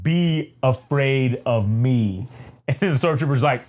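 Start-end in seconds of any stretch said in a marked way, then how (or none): 0.0-2.3 slow, measured menace; drawn-out villain warning; Vader's threat. Acted. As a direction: space the words out as a threat. Vader threatens a fearful trooper.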